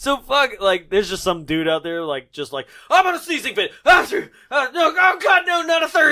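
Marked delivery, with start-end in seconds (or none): 2.9-6.1 high, loud panicked yelling; panicked shout. Retold or imitated. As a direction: freak out at each sneeze, shouting. Voicing panicked sneezing dude.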